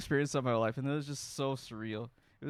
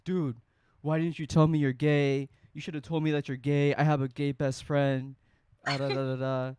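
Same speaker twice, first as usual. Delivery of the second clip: louder, indignant retelling of an upset guy; offended outburst; 5 dB louder than usual. Retold or imitated. To Dan, the upset straight guy protesting, indignant and louder. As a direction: voice the friend's hurt, accusing tone. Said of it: "he gets so offended".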